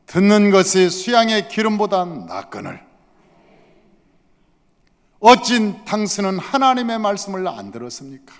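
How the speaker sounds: stern, emphatic reproach; angry rebuke. Acted. Samuel confronts Saul over disobedience, angry. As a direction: press the accusation home firmly. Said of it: "이렇게 화를 내서 얘기하는".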